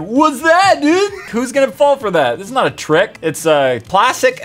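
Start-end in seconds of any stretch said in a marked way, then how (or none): 0.0-1.5 high, loud pretend shock; hammed-up startled yelp; mock alarm. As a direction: act startled by an obvious trick. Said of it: "I'm not gonna be like".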